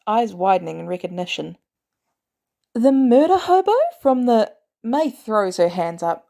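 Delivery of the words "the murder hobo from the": outraged outburst. A narrator's reading. May recognizes Barnes, outraged.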